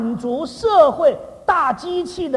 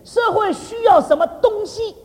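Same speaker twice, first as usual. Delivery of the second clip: slow, higher-pitched question landing pointedly on "东西"; stress on 东西; 6 semitones higher, slower than usual. Shown as a demonstration. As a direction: draw the question out and make "东西" stand out. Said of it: "其实注意，我讲的是东西哈".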